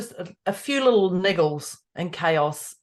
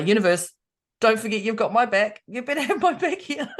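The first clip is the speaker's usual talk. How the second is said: mock plea to universe; 3 dB louder than usual. Speaker to the universe, lightly pleading. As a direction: playfully demand the universe's backing. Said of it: "I was like".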